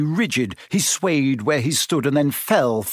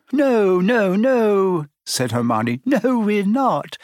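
high, insistent denial; hasty denial; 9 semitones higher, 3 dB louder, much slower than usual. A narrator's reading. Hermione denies they are going out again, insistent. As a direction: deny it with pitched-up voice.

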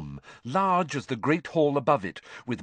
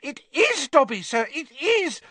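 very high, louder elf squeal; Dobby greeting Harry ecstatically; squealing house elf; 5 dB louder than usual. A narrator's reading. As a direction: squeal it out with joy. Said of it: "squealed the voice".

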